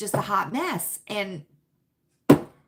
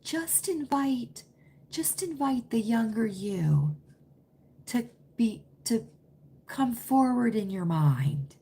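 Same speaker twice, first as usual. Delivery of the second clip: soft guru voice; 3 dB quieter than usual. Retold or imitated. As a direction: imitate a gentle guided visualisation, lightly. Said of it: "she's talking real soft".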